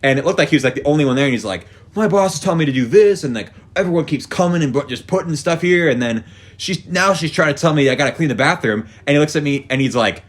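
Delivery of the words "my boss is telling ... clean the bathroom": higher-pitched griping worker; mock workplace rant; imitated complaining. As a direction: gripe about the boss, voice raised in pitch. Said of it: "starts complaining about his day".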